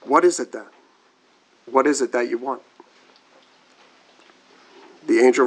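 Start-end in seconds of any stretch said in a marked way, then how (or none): 0.0-2.6 eagerly. A narrator's reading. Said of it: "Eagerly the woman asked".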